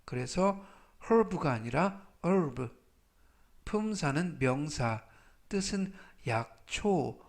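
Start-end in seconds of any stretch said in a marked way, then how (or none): 1.0-2.7 herb with a voiced h set against herb said as "urb"; silent h contrast. Shown as a demonstration. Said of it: "H가 이번 단어에서는 묵음이라서". (herb의 H를 빼고 발음하는 대조 시범)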